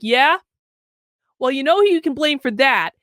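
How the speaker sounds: flat deadpan reply, no emotion at all; totally deadpan. Retold or imitated. Husband answering his wife, totally deadpan. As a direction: say it dead straight, like it's obvious. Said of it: "like, totally deadpan".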